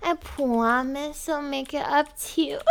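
put-on sweet, breathy e-girl act for a caller; girly gamer voice. Girl coos sweetly to Daddy on voice chat. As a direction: coo at Daddy, all sugar.

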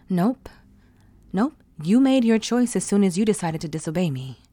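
loud, fast scolding; angry scolding. Acted. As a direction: snap at him for disobeying. Dom punishing disobedience.

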